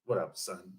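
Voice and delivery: low, soft, drawled "What up, son?"; mock street greeting. Imitating Queens and Brooklyn guys greeting each other, low and offhand. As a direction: toss it off like a Brooklyn guy.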